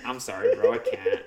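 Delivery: very high, laughing apology; laughing refusal. Retold or imitated. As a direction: squeal it out through laughter.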